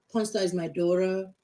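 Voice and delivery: hammed-up fake American twang with daughter as dora; mock fake American accent. Mocking friends who fake an American accent. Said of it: "Stop saying".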